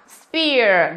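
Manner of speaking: "spear" with a clear ear glide; EAR vowel. Shown as a demonstration. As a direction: model "spear" carefully, ending in ear.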